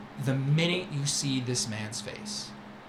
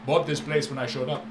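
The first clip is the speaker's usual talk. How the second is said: louder, sweeping showman voice; grand merchant boast; 4 dB louder than usual. Acted. Merchant Syrah boasting to the young friend, loud and showy. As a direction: boast like a flamboyant trader.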